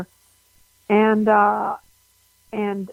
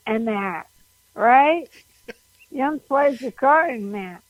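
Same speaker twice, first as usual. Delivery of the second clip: put-on Pittsburgh accent; 2 semitones higher than usual. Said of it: "I didn't expect".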